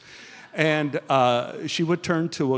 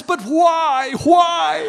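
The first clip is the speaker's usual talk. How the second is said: laughing why; 12 semitones higher, 4 dB louder, much slower than usual. Retold or imitated. Son pleading with mom.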